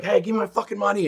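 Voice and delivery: high-pitched mock yell after a debtor; imitated demanding shout. Kid chasing the guy who owes him, mock demanding yell. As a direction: call it out like you're chasing someone down.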